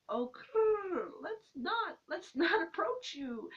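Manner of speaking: nervous recoil. Retold or imitated. Crush twitching as she approaches.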